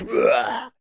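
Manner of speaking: low retching "ugh"; mock heave, drawn from the throat; imitated puke sound. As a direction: mimic a big puke sound effect. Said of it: "There's a big sound effect".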